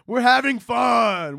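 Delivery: high, drawn-out mock merriment; forced cheer. Comedian insisting to listeners it's all fun, forced cheer. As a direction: sing out the fun a little too brightly.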